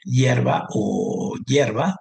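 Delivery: both words stretched out slowly; slow example words. Shown as a demonstration. Teacher showing paired words, said slowly. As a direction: lay each word out carefully to compare them. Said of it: "por ejemplo".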